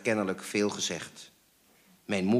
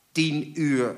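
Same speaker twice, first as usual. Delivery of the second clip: higher, incredulous echo; scoffing echo; 6 semitones higher, 4 dB louder than usual. A narrator's reading. Father scoffing at mother's late hour, incredulous. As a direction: throw it back with scorn.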